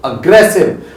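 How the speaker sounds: एग्रेसिव as "uh-GRES-iv", short first vowel; demonstrated pronunciation. Shown as a demonstration. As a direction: repeat एग्रेसिव as a clear model. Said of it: "What is that pronounced?".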